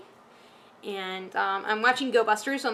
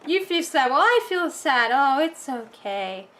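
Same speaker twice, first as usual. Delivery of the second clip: higher, slow, syrupy mock sympathy; mocking how the characters comfort each other, sugary; mock saccharine; 3 semitones higher, 4 dB louder than usual. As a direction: parody flat, fake-nice TV dialogue. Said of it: "They're just like".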